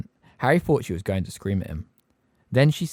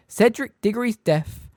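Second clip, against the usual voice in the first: cold; 8 semitones higher than usual. A narrator's reading. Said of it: "she said coldly".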